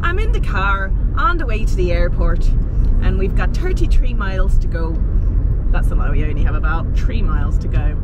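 amateur Irish accent in running speech; attempted Irish accent. Shown as a demonstration. Vlogger practising in the car, shaky attempt at Irish accent. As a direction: try chatting in a put-on Irish accent. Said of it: "improved on that, um, Irish accent".

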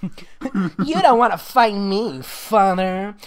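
slow, sneering threat to her father; mock-menacing daughter; defiant daughter. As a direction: draw it out like a cocky villain. Girl defies father in made-up story.

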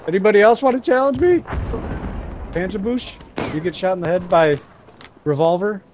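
taunting. Real, not acted. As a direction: gloat at the enemy. Taunting after kills.

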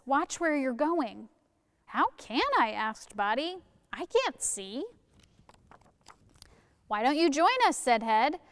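lively storybook reading; reading to children. Acted. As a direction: read it aloud to the kids.

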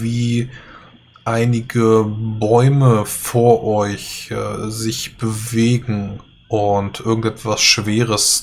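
slow, suspenseful storytelling; game master scene setting. Acted. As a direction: draw out the creeping danger. GM sets an ominous scene.

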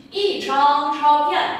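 Y chang chao phiền, slow and syllable by syllable; Y chang chao phiền read slowly with each tone shown; slow model reading. Shown as a demonstration. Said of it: "nhà đọc lại nào".

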